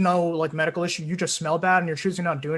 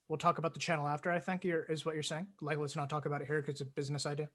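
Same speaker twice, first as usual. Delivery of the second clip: much softer, hushed aside; 4 semitones lower, 15 dB quieter than usual. Real, not acted. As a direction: say it quietly off-mic.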